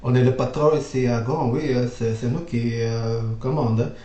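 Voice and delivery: lightly voiced French bosses in French, bossy; a hint of indignant French patron; mock French officials. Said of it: "the French were, like, looking at me".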